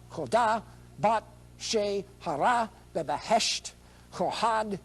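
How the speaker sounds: slow, careful Farsi reading. Shown as a demonstration. Candidate reading Farsi to the Ayatollah, slow and careful. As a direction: read it out slowly, syllable by syllable in Farsi. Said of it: "I'm gonna read this Farsi".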